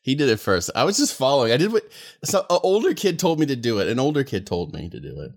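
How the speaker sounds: lightly put-on kid in trouble, pitch climbing then sinking; mock childish excuse. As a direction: plead like a blamed child, then tail off. Mock childish excuse after being scolded.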